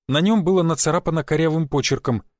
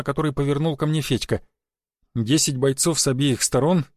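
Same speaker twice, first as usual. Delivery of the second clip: plain reading voice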